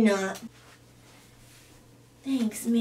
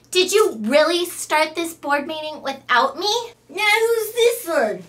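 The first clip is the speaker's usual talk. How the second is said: loud, higher, huffy entrance; a spoiled girl offended at being left out; loud, snooty indignation; indignant valley girl; 4 semitones higher, 5 dB louder than usual. Acted. Brittany barges in, indignant.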